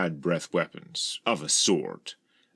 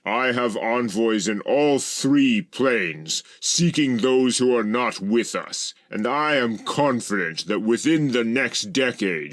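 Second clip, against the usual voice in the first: confident address; 5 semitones higher, 4 dB louder than usual. A narrator's reading. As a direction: proclaim it to an assembly. Ajna addresses the gathering.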